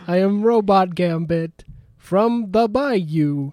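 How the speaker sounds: put-on slow laughing robot with Cajun accent; half-laughing robot Cajun voice; Robot Gambit voice. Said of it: "I like your robot impression".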